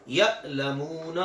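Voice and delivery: यअलमून with a hard catch on the first vowel, drawn out; Arabic hamza with a sharp glottal stop; hamza with a jolt. Shown as a demonstration. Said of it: "सख्त और झटके वाली होती है".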